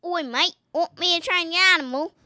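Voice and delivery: lively mock Australian accent, pitched slightly up. Shown as a demonstration. Child demos Australian accent for father, Australian accent. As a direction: do a playful Australian game trainer. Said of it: "I think I could do Australian".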